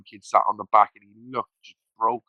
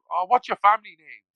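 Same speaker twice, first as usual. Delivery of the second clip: retelling Pricey; 8 semitones higher, 5 dB louder than usual. Retold or imitated. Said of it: "he went".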